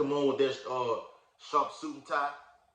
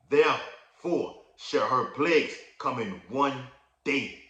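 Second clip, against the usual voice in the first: preaching scripture; slower than usual. Acted. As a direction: proclaim the verse to the congregation. Reads scripture aloud, preaching.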